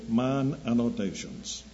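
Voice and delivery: a hint of a German accent, slow; lightly imitating an old German professor; slight German accent. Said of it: "with a slight German accent".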